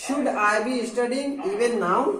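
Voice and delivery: very slow, each English word spelled out for learners; slow model sentence. Shown as a demonstration. Teacher showing students the English sentence, very slowly. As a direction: dictate it word by word. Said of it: "अब interrogative में कैसे होगा?".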